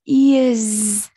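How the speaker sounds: "Ears" with a drawn-out buzzing z at the end; teacher's careful "Ears", ending in a voiced z. Shown as a demonstration. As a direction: model "Ears", holding the final z. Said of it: "âm giờ".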